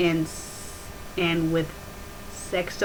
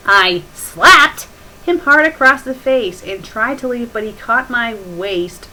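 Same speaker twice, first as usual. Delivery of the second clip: loud, higher dramatic read; heated reading; 3 semitones higher, 9 dB louder than usual. Real, not acted. Reader reading the fight loudly, heated. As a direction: belt out the fanfic lines.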